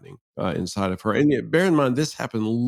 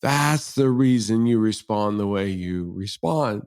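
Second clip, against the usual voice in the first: a lightly voiced realising ooh, then slower; dawning ooh; 2 semitones higher, much slower than usual. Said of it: "she gave me the first ooh".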